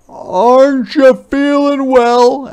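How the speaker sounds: high, slow concerned parent; caring father. Acted. Papa asks Ruthie at dinner, high, slow and concerned. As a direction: gently check on her. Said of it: "asked Papa".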